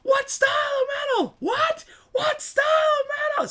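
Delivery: high, loud yell across lanes; shouting over traffic. Retold or imitated. Yelling from the car at the van driver on the freeway. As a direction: holler it out the car window. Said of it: "I'm screaming back and forth with this guy".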